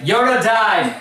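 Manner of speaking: slow, emphatic outburst with a laugh; mock spoiler announcement. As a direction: blurt it out as an obvious fact. Teasing example of missed key point.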